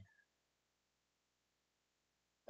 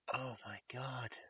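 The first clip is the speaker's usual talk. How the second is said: shocked whisper; 4 semitones higher than usual. Retold or imitated. Babysitter reacts in shock.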